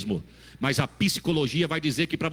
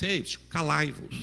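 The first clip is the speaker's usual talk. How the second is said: mock formal. Shown as a demonstration. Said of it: "É muita etiqueta".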